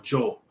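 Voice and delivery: "yo" said like "jo"; J-sound "yo". Shown as a demonstration. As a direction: start "yo" with an English J sound. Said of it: "like, a J sound".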